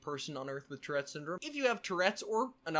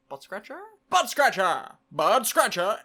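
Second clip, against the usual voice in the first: a little higher, lightly sneaked call; friend slipping in the tick; 6 semitones higher, 8 dB louder than usual. Retold or imitated. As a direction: slip it in playfully. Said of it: "he would just kinda slip in".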